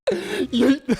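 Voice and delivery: high giggly exclaim; laughing yeet. Real, not acted. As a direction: blurt it through laughter.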